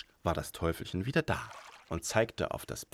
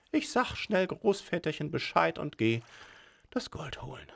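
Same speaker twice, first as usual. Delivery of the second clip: giggly sneering imp; 9 semitones higher than usual. A narrator's reading. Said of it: "sagt das Teufelchen".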